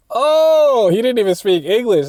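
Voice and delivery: high, startled realization; jaw-dropped high exclamation; surprised. Retold or imitated. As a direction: suddenly get it, amazed. Realizing seatmate is Ecuadorian.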